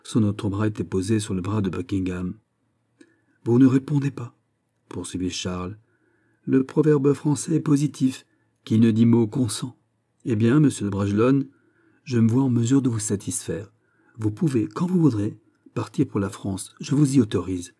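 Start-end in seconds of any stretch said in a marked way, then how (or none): 3.5-4.4 higher, louder prompt; pressing king. Acted. King prodding the silent viscount, insistent. 6.5-17.7 lightly voiced gracious monarch; decisive king. King granting the viscount leave to depart, decisive.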